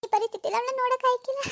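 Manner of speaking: mother weeping, begging the doctor to cure her daughter; tearful mother. Acted. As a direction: plead with the doctor as if crying. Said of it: "ಅಳ್ಬೇಡಿ ಅಮ್ಮ, ಅಳ್ಬೇಡಿ".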